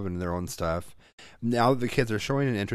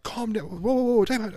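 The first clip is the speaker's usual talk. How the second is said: much higher-pitched, break up a squabble; urgent intervention; 14 semitones higher, 4 dB louder than usual. Retold or imitated. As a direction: re-enact cutting off a freaking-out kid. Retelling stepping into the freak-out.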